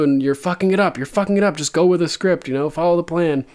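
mock furious hissed-at brother tone, understated; imitating angry Jaime. Jaime scolding Tyrion for ruining the plan, mock angry. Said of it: "He looks so mad".

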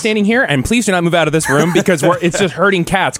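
lightly acted organizer keeping everyone in place; imitated stage manager. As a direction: give mock orders to an unruly group. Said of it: "Jeremiah was, like, on point".

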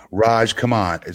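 slow, drawn-out mimicking of a commenter; lightly voiced stock impersonation; put-on voice for a viewer's comment. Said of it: "same voice that I use".

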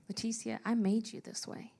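softly imitating a tender, loving God; gently voiced reassurance, kept soft; sweetest voice. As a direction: retell it with quiet sweetness. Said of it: "say in the sweetest voice".

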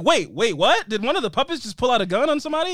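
high, fast disbelief; what did I just see; disbelieving. Retold or imitated. Viewer watching puppets pull a gun, high disbelief.

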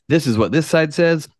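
a hint of a mocking pundit; mocking the media. Media pitting both sides against each other, mock announcer. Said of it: "views to be like".

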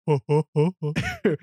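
mock version of that trademark laugh; imitating Seth Rogen's laugh. Friend retelling a stoner movie scene, mock Seth Rogen laugh. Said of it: "I don't know how he laughs like that".

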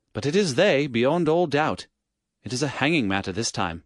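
put-on brisk, eager young police inspector; an alert inspector reporting quickly.

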